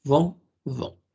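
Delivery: "vont" with swallowed nasal o; nasal "vont" drill. Shown as a demonstration. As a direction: say "vont" as if eating the n. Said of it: "es como si se lo comieran".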